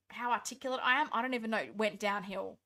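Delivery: words slurring late at night; sleepy, slightly slurred delivery; slurred tired speech. Real, not acted. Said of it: "I sound like a drunk person".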